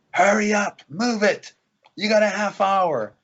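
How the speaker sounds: high, loud herder's call; retold yelling. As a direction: imitate a sheep herder hustling stragglers along. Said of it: "yelling out".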